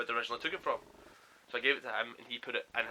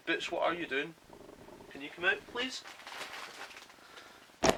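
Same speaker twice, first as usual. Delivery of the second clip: higher-pitched pet-talk voice; coaxing a cat; 5 semitones higher, 4 dB quieter than usual. Real, not acted. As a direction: call gently upward in pitch to your cat. Calling to the cat under table.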